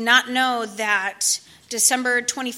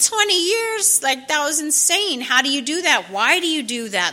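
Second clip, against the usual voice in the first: amazed disbelief; 4 semitones higher, 3 dB louder than usual. Retold or imitated. Stunned by twenty years sober.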